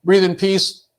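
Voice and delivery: put-on a kid who breaks mid-exercise and blows up; child freaking out. Angry child quitting the breathing exercise, high frustrated outburst. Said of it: "Adam freaks out".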